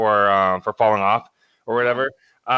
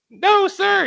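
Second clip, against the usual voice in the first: much higher, louder clipped yell; recruit shouting back; 4 dB louder than usual. Retold or imitated. Recruit yelling yes sir at drill instructor, high and loud. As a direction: snap it out like a recruit.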